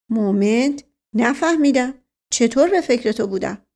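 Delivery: momentarily baffled, leaning in; puzzled prince. Acted. Asadollah puzzled.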